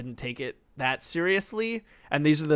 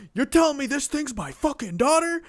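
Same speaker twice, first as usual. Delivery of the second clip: high, loud incredulous outburst; mock shock; 13 semitones higher, 5 dB louder than usual. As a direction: imitate an overblown, disbelieving game hero. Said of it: "immediately shocked".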